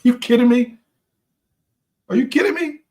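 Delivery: outraged that anyone makes such excuses; incredulous disbelief. Real, not acted. Exasperated rhetorical disbelief.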